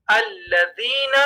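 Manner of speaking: الذین with thin, clear L; light laam. Shown as a demonstration. Teacher contrasting with heavy laam, الذین with light L. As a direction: keep the L of الذین light, open "al". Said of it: "لیکن ہم کہیں گے".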